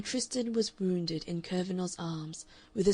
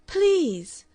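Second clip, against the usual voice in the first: a high, louder cry of please; insistent plea; 10 semitones higher, 9 dB louder than usual. A narrator's reading. Woman begging her suitor to stop, insistent high plea. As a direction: plead with him to stop. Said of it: "she insisted".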